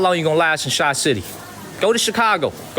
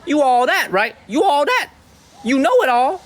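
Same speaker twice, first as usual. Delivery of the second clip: real heated challenge, pitched up; worked-up Chicago; 8 semitones higher than usual. Real, not acted. Taunting online haters as Chicago comes out, worked up. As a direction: call them out, riled and high. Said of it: "Chi City about to come out of me".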